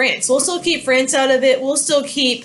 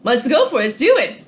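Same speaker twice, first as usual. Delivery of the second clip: higher, breezy voice, lightly played; agreeable Britain; 6 semitones higher than usual. Britain happily accepts Madison's trade offer, breezy and higher. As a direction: cheerfully agree to the deal. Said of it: "Then Britain says".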